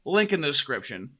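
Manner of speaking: practised host read; scripted show intro. Acted. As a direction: rattle off the podcast's opening spiel.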